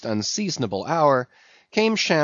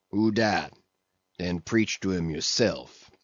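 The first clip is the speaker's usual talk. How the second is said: sullen; 5 semitones lower than usual. Acted. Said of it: "sullenly turning to go".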